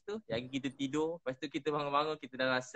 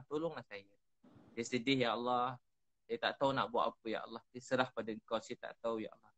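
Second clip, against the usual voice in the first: mild pleading prayer, fading away at the end; sad plea to God; 3 semitones lower than usual. Retold or imitated. Ustaz replaying his night prayer, mildly sorrowful plea. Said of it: "Saya ulang-ulang cakap tu".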